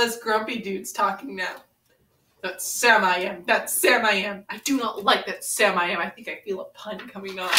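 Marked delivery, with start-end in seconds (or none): 2.4-6.0 sing-song read-aloud to a friend; storybook reading. Acted. Reading Green Eggs and Ham to Ren, storybook lilt. Reads Dr. Seuss book aloud.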